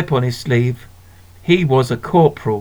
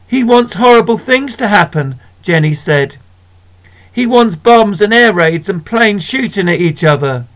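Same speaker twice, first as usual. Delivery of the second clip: telling tales; 4 semitones higher than usual. Acted. Jenny telling on brother.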